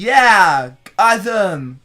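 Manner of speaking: high, loud, slow put-on voice; imitating the guy. The stranger asking them to comment, high and slow. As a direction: keep it high and eager. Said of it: "He's like".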